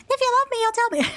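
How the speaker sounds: a high, wheedling plea, lightly hammed up; high pleading girlfriend. Sadie pressing him to tell her, in a high pleading mock voice.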